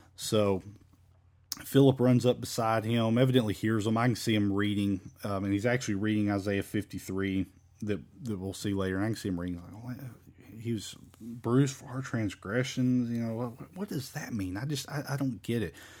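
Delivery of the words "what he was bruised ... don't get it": soft, puzzled mumbling to oneself. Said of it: "he's mumbling to himself".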